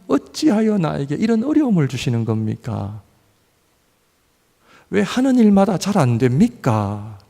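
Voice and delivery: normal talking voice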